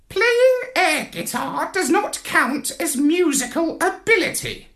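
high, cutting parrot voice; stern parrot. A narrator's reading. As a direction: put him down coldly, parrot-style. Parrot with steely stare.

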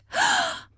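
sharp high gasp; terrified gasp. A narrator's reading. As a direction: gasp as if scared to death. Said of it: "scared to death".

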